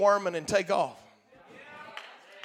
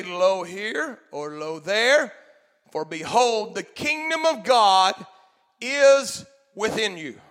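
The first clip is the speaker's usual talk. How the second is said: slow, solemn Bible reading; scripture reading. Acted. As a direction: read the verse slowly and reverently. Reads scripture aloud.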